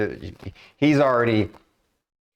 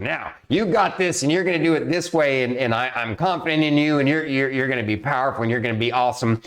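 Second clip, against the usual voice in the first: higher, motivating drill sergeant bark; 4 semitones higher than usual. Retold or imitated. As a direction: pump up the troops like a drill sergeant. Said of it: "she's talking to 'em like a drill sergeant".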